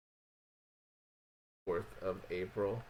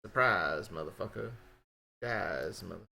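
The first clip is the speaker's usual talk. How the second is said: hammed-up fake Russian accent; mock Russian accent, badly faked; 3 semitones lower than usual. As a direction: put on a bad Russian accent voice. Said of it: "as I do this bad Russian accent voice".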